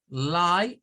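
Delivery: LIE said as "lai"; syllable demo. Shown as a demonstration. Teacher counting syllables for students, clear demo. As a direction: isolate LIE as one syllable. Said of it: "Lie es una sílaba".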